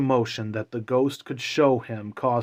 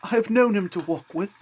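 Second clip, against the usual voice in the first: faltering cheer; 9 semitones higher, faster than usual. A narrator's reading. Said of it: "in a very steady, cheerful voice that only faltered once".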